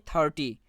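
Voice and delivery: থার্টি with weight on the opening থার; teaching demo of থার্টি, first syllable stressed. Shown as a demonstration. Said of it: "থার্টিতে থার্ডের উপর জোর প্রদান করা হয়".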